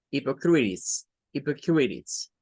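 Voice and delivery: hypocrites said slowly, in English; English plural. Shown as a demonstration. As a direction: model hypocrites clearly. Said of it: "ahí está en plural".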